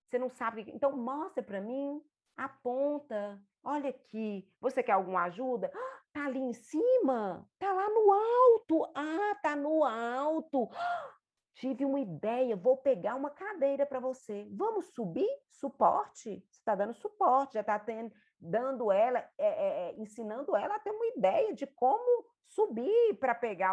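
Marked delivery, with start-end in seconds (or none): 0.7-11.2 higher, gently coaxing, with little gasps of discovery; encouraging guide. Shown as a demonstration. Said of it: "vamos usar a palavra simples". 11.5-12.6 bright gasp, then the idea; sudden idea. Shown as a demonstration. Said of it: "vamos usar a palavra simples". 12.6-23.7 higher, gently coaxing, with little gasps of discovery; encouraging guide. Shown as a demonstration. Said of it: "vamos usar a palavra simples".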